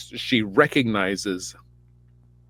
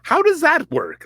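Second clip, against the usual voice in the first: 1 incredulous; 3 dB louder than usual. Real, not acted. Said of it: "I'm like".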